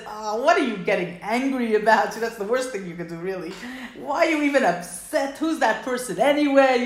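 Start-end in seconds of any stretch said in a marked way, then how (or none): 0.1-2.1 dismissive teasing retort; mock dismissive tease. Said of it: "like somebody would say to you". 4.0-6.8 louder, mock-dismissive question; brushing off someone's anger; teasing dismissal. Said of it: "that kind of a thing".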